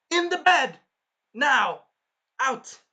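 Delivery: high, loud barked orders; imitating an enraged scolding; very pissed. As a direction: shout each word as a furious command. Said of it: "I would be very pissed".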